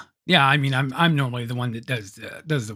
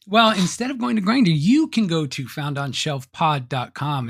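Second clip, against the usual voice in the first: ad read; slower than usual. Acted. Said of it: "You're better at the intro".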